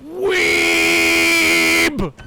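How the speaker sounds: loud mock outburst; shout. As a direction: bark it out as a joke. Interrupts reading to call out.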